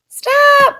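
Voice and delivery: high, loud desperate shout; child shouting stop; crying out. A narrator's reading. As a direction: yell to stop them in time. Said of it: "cried Louis".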